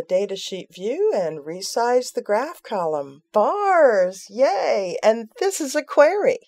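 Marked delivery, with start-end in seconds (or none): 3.3-6.4 higher and louder, cheering; delighted little cheer at the result; excited. Real, not acted. Delighted the bar graph appears.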